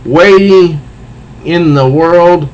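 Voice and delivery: hammed-up comic-book villain, slow taunt; villain Clayface. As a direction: taunt the princess, savouring each line. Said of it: "And he is".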